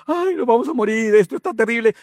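preacher puts the congregation in the boat, wailing in mock panic. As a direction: play the terrified disciple in the storm. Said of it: "Póngase en el lugar de ellos".

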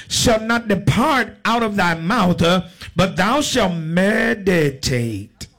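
slow, drawn-out Bible declamation; preacher's deliberate scripture cadence; scripture reading. Real, not acted. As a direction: proclaim the verse slowly to the congregation. Reads scripture to congregation.

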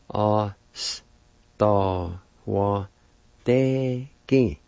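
A, s, ta, wa, te, ki said one sound at a time; syllable breakdown. Shown as a demonstration. Teacher sounding out the second part for learners. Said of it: "Second part".

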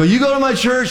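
laughing, surprised question. Retold or imitated. Pastor surprised to meet churchgoer, laughing. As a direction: react with amused disbelief. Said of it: "I go".

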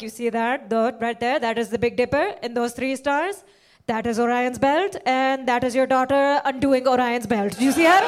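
lightly voiced old mystic pointing at the stars; mock guru reading the sky; old Indian psychic. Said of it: "some old Indian man in a mountain".

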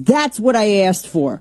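slipping into a Brooklyn accent; mild Brooklyn-accented complaint. Real, not acted. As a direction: let a touch of Brooklyn out. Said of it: "I got Brooklyn there for a minute".

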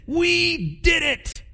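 hammed-up high gleeful cheer; gleeful squeal. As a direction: squeal it like a giddy kid who won. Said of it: "gone home to their wives and said".

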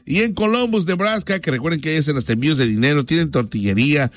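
upbeat radio host reading the sponsor list. Acted. Radio host thanking local sponsors on air, upbeat ad read. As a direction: rattle off the sponsors like a DJ.

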